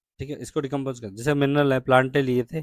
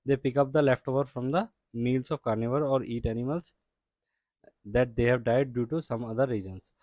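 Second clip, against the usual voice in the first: slow, deliberate textbook reading; teacher reading the English definition slowly; reading textbook aloud; much slower than usual. Acted. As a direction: read the definition out slowly for the class. Reads textbook sentence aloud.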